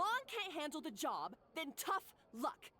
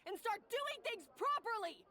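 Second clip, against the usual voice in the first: angry scolding; 2 semitones higher than usual. Acted. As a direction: berate her like a furious head chef. Boss berates kitchen worker.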